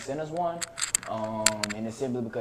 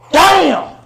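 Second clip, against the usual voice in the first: loud, high burst of disbelief; shocked damn; 18 dB louder than usual. Real, not acted. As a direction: blurt it out, stunned. Shocked at graduation year.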